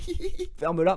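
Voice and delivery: high mock giggle then ferme-la; playful giggly shut up; giggling quote. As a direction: imitate a friend teasing through laughter. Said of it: "il le dit tout le temps en rigolant".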